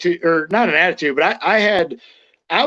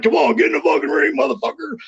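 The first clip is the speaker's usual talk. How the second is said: gruff coach challenge; 7 semitones higher than usual. Retold or imitated. Sarge's retold challenge.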